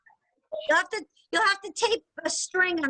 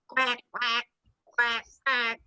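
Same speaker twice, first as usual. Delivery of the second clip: duck quack; 6 semitones lower, slower than usual. Shown as a demonstration. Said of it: "Next one is on the farm".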